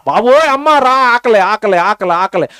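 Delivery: lightly mimicked hungry baby's wail; mock a baby clamouring for milk, repetitive and falling; imitated wailing baby. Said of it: "ఆడు గోల".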